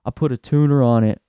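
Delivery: lightly voiced bro bragging about his Subaru; a hint of a boastful gearhead; mildly mocking a car bro; bragging car guy.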